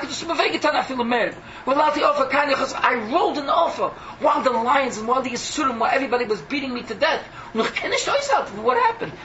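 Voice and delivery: lightly voiced sufferer crying out; Iyov's anguished complaint. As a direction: plead your wounds to heaven, voice climbing.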